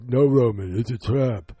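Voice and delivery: loud imitated warning yell; shouted warning. Dom warns Roman it's a trap, shouted warning. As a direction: yell it as an urgent movie warning.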